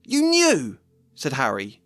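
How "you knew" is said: higher and louder, stunned; an indignant boy's outburst; shocked accusation. Acted. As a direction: confront them with what they hid. Harry accuses his aunt and uncle.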